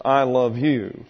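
I love you spoken slowly, word by word; slow example sentence. Shown as a demonstration. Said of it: "I want you to note this, uh, sentence".

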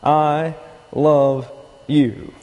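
very slow, one word at a time; deliberate spelled-out example. Shown as a demonstration. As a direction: set out I, love, you slowly with gaps. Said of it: "interpreted in two different ways".

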